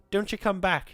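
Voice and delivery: very high, loud scream. A narrator's reading. Woodcutter screaming after the departing visitor. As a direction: scream after him as he leaves. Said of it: "he screamed after me".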